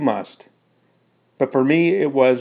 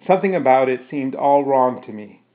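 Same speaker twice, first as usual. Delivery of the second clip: ordinary delivery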